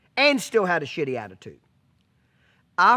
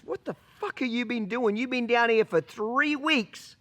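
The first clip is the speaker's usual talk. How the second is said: mock furious tirade; retold angry cussing; 6 semitones higher than usual. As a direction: chew him out like an angry boss. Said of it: "cusses me out".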